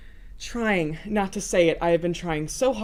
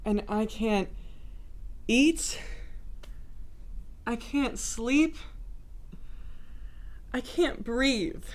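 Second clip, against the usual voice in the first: softer, slowing with long pauses; hushed aching confession; 8 dB quieter, slower than usual. Acted. Lovesick woman admits she can't sleep, hushed and aching. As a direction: let each admission come out small and helpless.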